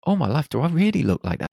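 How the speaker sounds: high, loud, fast cry of dismay at your own face; mock-horrified squeal at your reflection; shocked disbelief. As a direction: gasp it out, horrified by the mirror. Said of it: "And you were like".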